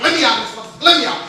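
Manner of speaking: mildly hammed-up angry demand to escape; angry devil. Devil demanding to be let out, angry. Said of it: "he was mad, he was mad".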